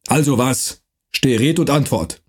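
rough dialect voice, lightly done; gruff Franconian watchman. Acted. Night watchman threatening the stranger, gruff dialect. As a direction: bark it like a mercenary guard.

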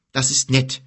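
mildly weary thanks; groaned. Acted. Boy resigned to his escorts, mildly groaning. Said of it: "stöhnte Kim".

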